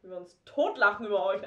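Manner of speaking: cracking up at the memory; laughing. Real, not acted. Lachen über Chats. (lachend, lauter)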